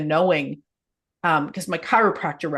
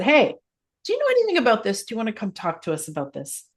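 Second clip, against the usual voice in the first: eager, high-pitched opening, then settling back to normal; excited invite; 5 semitones higher, faster than usual. Retold or imitated. Host retells asking Dougal onto the show, excited invite. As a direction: re-enact an eager, friendly ask. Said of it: "reached out to Dougal and said".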